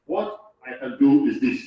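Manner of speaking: slow, steady reassurance; calm helpful reply. Shown as a demonstration. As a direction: say "What I can do is this" slowly and calmly.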